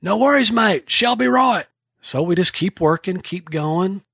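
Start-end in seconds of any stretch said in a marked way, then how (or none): 0.0-1.7 put-on relaxed Kiwi accent, no worries; New Zealand accent. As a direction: toss it off in a Kiwi accent, unbothered. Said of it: "Laurie's reply again".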